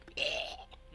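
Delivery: short rough creature noise; imitated horde noise.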